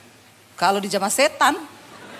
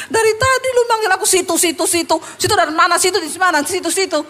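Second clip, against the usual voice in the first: exasperated retort; 6 semitones higher, faster than usual. Retold or imitated. Exasperated inner retort, laughing.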